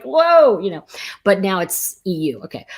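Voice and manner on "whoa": high, loud playful whoa; mock impressed whoa. About dressing up in Europe, playful wow. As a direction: gasp at how well people dress. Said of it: "it's like".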